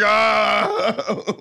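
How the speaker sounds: drawn-out frustrated "ah"; exasperated groan. Retold or imitated. Voices own exasperation at film.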